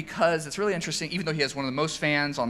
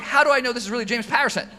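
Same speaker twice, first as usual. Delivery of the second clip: high, quick, laughing disbelief; mock suspicion through laughter; laughing doubt; 9 semitones higher, 5 dB louder, faster than usual. Recounting his own suspicious thought about the caller, laughing.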